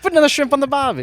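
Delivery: a tourist's idea of an Aussie; mock Australian, lightly done; Australian accent. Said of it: "You do an accent?".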